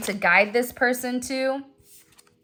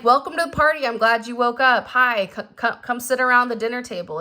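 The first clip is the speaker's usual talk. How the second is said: cheery welcome. Pretend. Welcoming the person who woke up.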